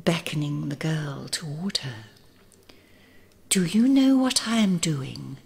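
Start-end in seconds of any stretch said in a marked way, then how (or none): 3.5-5.4 put-on old woman whispering. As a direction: breathe it like a sly old woman. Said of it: "whispered the old woman".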